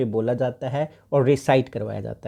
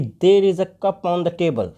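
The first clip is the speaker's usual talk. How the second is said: slow, carefully spaced teacher model; demonstrating a drill sentence slowly; 4 semitones higher, much slower than usual. Shown as a demonstration. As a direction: say it slowly, word by word for the class. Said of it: "जैसे teacher ने कहा कि".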